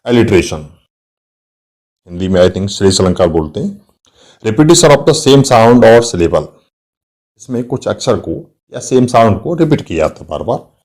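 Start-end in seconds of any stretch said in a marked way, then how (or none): 4.4-6.5 each word spaced out for notes; teacher dictating a definition to students, slowly; slow dictation. Shown as a demonstration. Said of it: "dictating a definition".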